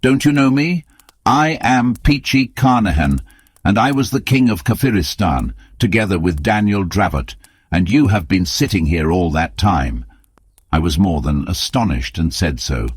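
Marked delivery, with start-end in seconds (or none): 0.0-10.0 high, strained, broken wanderer; ragged old man voice. Acted. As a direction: play a half-mad wretched survivor. Voices ragged returned Peachy.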